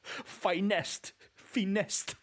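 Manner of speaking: high, pleased "Finessed"; gleeful. Real, not acted. Streamer delighting at a speedrun trick, high gleeful. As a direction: crow it out, half laughing.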